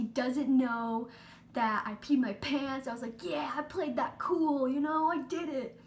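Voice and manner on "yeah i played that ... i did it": smug. Retold or imitated. Girl praising herself for hiding wet pants, smug. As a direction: savor the win, slightly louder.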